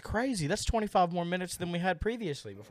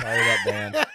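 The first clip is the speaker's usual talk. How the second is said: silly high voice; 7 dB louder than usual. Pretend. Joking correction in silly voice.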